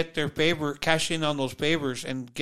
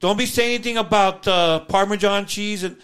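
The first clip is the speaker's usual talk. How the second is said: mock warning, quick and raised; fake-serious scolding, tongue in cheek; sarcastic; 4 semitones higher, 4 dB louder than usual. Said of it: "He's being sarcastic".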